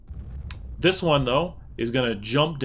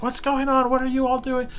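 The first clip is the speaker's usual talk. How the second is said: high-pitched, alarmed goblin boss; squeaky-high goblin outburst without much volume; yelling goblin leader; 12 semitones higher than usual. Acted. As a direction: play a goblin calling out in surprise. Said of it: "like, yelling and screaming".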